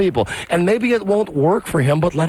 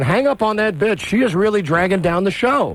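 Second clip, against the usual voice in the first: ordinary talk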